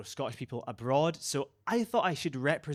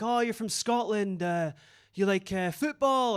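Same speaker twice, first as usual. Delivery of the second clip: imitating Spanish guy; 4 semitones higher, slower than usual. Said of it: "He was like".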